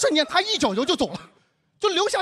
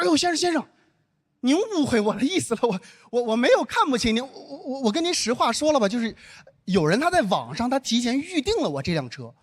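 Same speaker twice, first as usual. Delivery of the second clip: stammering earnest excuses, acted out; apologetic explaining. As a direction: imitate a flustered, apologising driver. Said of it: "他就开始跟我解释，跟我道歉".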